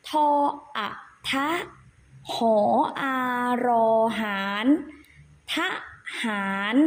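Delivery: ทหาร sounded out as ทะ-หาร, syllable by syllable; spelling aloud. Shown as a demonstration. Teacher shows children the hidden vowel, measured spelling recitation. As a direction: spell ทหาร in separate, evenly paused pieces. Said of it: "เวลาสะกดเราจะสะกดว่า".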